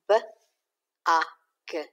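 "B, A, G" said as three separate sounds; sounding out letters. Shown as a demonstration. Teacher typing the word, sounding out "B, A, G". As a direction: segment "B, A, G" again. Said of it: "three sounds".

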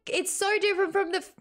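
put-on high, bubbly Valley girl gush. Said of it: "Why do you make me sound like a Valley girl?".

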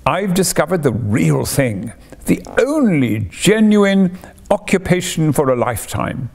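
lightly voiced boastful Toad, eager; excited Toad. A touch of pompous excited Toad to Ratty. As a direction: Toad gushing to Ratty about his new passion. Toad's excited speech in story.

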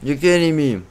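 high, loud disbelief; disbelieving shout. Real, not acted. Disbelief after lucky goal.

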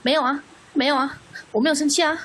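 lightly hammed-up huffy denial; mock defensive denial. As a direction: mimic someone pretending not to be angry. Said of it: "他就恼羞".

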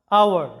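আওয়ার said "our", with no h sound; আওয়ার spoken as the English "hour" with a silent h. Shown as a demonstration. Teacher shows students আওয়ার with a silent h. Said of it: "এখানে H এর কোনো উচ্চারণ নাই".

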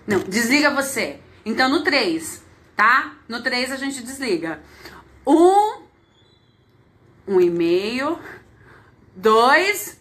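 playful lovers' goodbye banter; giggly late night call. Pretend. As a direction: tease like a sweetheart on the phone. Playful you-hang-up-first goodbye game.

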